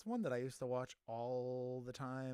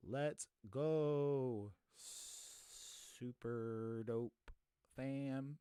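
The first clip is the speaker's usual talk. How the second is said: all caps voice; much slower than usual. Shown as a demonstration. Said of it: "what I sound like when I tweet things in all caps".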